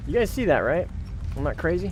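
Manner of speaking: high, loud disbelief; can you believe this, to chat; surprised disbelief. Real, not acted. Sudden game glitch, appeals to chat.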